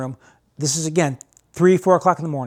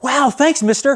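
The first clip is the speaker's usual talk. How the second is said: naive thanks; 9 semitones higher, slower than usual. Retold or imitated. Stranger thanks dad eagerly.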